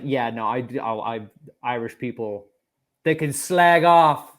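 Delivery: mock British accent, swelling on the last words; bad British accent. Co-host mimicking a man's racist rant, in mock British accent. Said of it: "shit British accent by himself".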